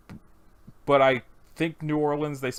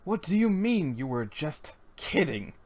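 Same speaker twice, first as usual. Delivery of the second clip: Mordecai; 4 semitones higher, 4 dB quieter, slower than usual. Acted. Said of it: "what kind of voice to do for Mordecai".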